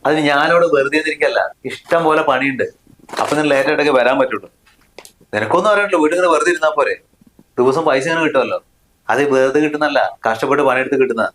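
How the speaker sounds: touch of anger, pitch slightly lifted; irritated, defensive anger. Acted. Husband defending his late working hours to his wife, irritated. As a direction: snap back defensively at a nagging question. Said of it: "എന്തിനിപ്പോ ഇത്രമാത്രം ദേഷ്യപ്പെടുന്നത്".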